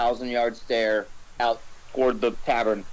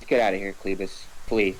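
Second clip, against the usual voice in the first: quiet defeated; 4 semitones lower than usual. Acted. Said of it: "in a quiet, defeated voice".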